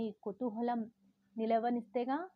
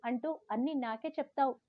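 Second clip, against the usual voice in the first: a mild angry complaint, stamping feet; sulky teen snapping back, lightly acted; angry retort; 3 semitones higher than usual. Girl snapping back at her mother, mildly angry. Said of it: "కోపంగా కాళ్ళు నీలకేసి కొడుతూ అన్నాను".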